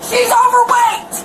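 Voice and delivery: high, slow, each syllable pressed; slow emphatic accusation. Real, not acted. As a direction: drag it out to make the point. Woman accusing bus driver.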